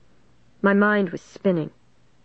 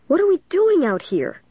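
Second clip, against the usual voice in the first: frightened; 11 semitones higher than usual. Acted. Frightened girl asks aloud.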